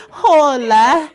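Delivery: said through laughter; giggling the word out; laughing. Real, not acted. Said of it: "no, that's not it".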